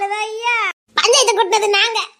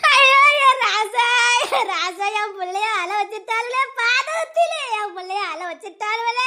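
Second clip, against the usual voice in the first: wailing lament. Acted. Grandmother wailing over crying child.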